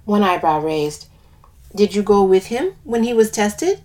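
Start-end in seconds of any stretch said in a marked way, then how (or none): 1.7-3.8 put-on lilting West Indian accent. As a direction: speak with a light West Indian lilt. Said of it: "I do an accent for one of the characters".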